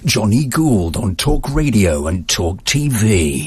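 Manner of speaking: slow, drawn-out radio ident; drawn-out announcer read of the station name. Shown as a demonstration. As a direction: deliver the station tag like a voice-over pro. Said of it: "so you can do it again".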